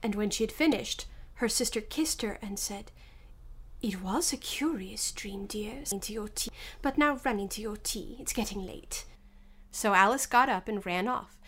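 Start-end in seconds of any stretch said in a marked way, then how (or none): 3.8-9.0 gentle. Acted. Sister gently wakes Alice.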